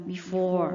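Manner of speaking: before said bi-FOR with a short first vowel; one way to say it. Shown as a demonstration. Teacher showing the class one way to say before. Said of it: "บางคนก็จะออกเสียงว่า before".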